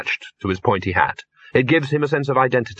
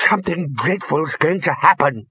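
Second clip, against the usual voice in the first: higher, panicked cry; screamed warning; 5 semitones higher than usual. A narrator's reading. Bursar grabbing Arch-Chancellor's robe, alarmed scream. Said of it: "screamed into the big pink and orange face".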